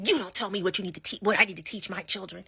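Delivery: rattled off fast and defensive; fast retort. Retold or imitated. White mom defending her parenting, fast indignant retort. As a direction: fire it back quickly, indignant. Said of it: "mom arguing back".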